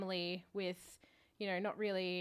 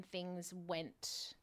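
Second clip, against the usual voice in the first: whispering; 5 dB quieter, much slower than usual. Real, not acted. Confiding about a painful falling-out.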